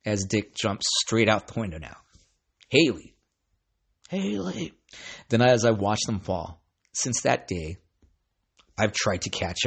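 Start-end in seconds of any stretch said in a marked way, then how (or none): 2.7-4.7 calling a name after a falling dog. Retold or imitated.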